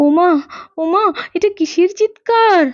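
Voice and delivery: mother spots a lion, alarmed and shaken; frightened discovery. Acted. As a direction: gasp at the lion in the yard. Mother sees lion in house.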